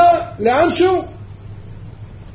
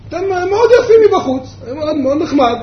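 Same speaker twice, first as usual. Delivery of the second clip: higher-pitched mock compliment; acted, raised-pitch admiration; polite outsider's praise; 5 semitones higher, 3 dB louder than usual. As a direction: praise them lightly from a distance. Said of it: "מה הוא אומר בעברית?".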